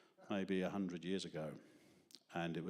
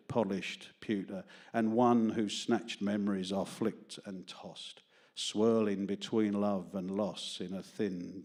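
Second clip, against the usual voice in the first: poem reading; slower than usual. Acted. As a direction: read the verses slowly and gently, letting lines land. Reads own poem aloud.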